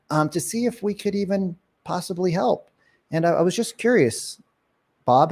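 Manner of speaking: easy, hesitant follow-up with ums and pauses; unhurried script demo. Shown as a demonstration. Agent getting back to an older lead, casual and unhurried. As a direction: ask it casually, leaving gaps before the questions. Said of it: "This is what you'd say".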